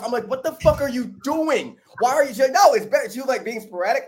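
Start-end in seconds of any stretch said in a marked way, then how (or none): 0.3-2.3 high-pitched incredulous retort; a retold shocked what-are-you-doing; outraged disbelief. Quoting own outrage at friend. 2.5-3.1 high, loud insistent friend voice; a pitched-up, sure-of-herself friend; stubborn friend. Retold or imitated. Voicing friend's stubborn answer.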